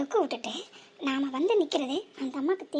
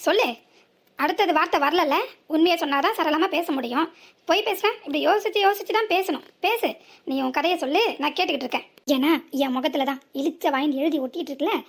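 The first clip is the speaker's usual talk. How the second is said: louder, scornful needling; sarcastic mockery; 3 dB louder than usual. Driver sarcastically needles the woman about her stumbling story. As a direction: sneer at her lies.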